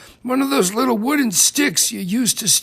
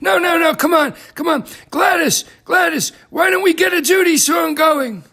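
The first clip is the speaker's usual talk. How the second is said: eager coaxing; 5 semitones higher than usual. Acted. Eagerly urging Gladys to start song.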